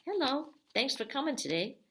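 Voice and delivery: high, chirpy puppet greeting. Pretend. Teacher voicing a paper puppet greeting kids, high puppet voice. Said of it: "you say".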